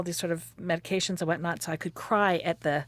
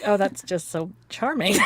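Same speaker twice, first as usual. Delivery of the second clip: mock-delighted, louder and sarcastic; 3 semitones higher, 5 dB louder than usual. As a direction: fake delight that drips irony. Mocking her own thought about spit.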